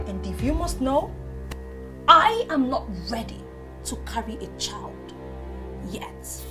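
low, measured refusal; quiet defiance. Acted. Defiant refusal to bear a child.

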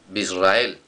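Bisrael said slowly, every sound clear; teacher spelling out Bisrael to learners; slow clear Hebrew. Shown as a demonstration. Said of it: "si dices en Israel".

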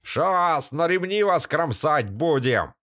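high threatening sneer from the woods; mock them with a threat; jeering thug. A narrator's reading. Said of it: "глумливый голос". (глумливая угроза бандита)

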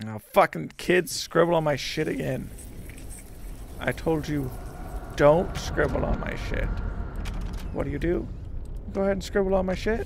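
put-on loud annoyed yelling at kids; angry scolding. Scolding kids who scribbled.

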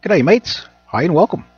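hammy Aussie hello; poor Australian accent. Pretend. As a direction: greet them in a put-on Australian accent. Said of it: "thick Australian accent".

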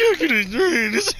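squeaky cracking falsetto, loud; mock voice crack. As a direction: crack the voice up high on purpose. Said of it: "Fucking voice cracks".

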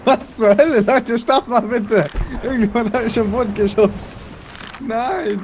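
shocked, high-pitched outcry; escalating comedy rant. Real, not acted. Shocked after being knocked off.

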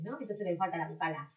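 ordinary talk, nothing marked

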